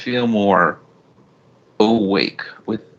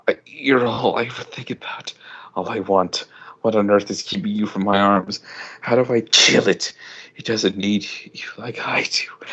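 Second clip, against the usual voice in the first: breathless longing; 3 semitones higher than usual. Acted. Yearning monologue to sister.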